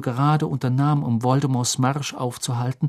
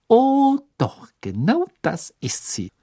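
whooping with glee; 10 semitones higher, slower than usual. Acted. Hermine confirming to Ron she caught Rita, whooping. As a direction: crow it out in delight. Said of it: "juchzte Hermine".

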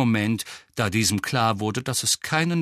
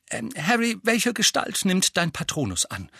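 lightly voiced higher character; Lupin's voice; 8 semitones higher than usual. A narrator's reading. Lupin testing Harry about his Patronus, higher voice. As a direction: ask it in a raised, hesitant-starting voice.

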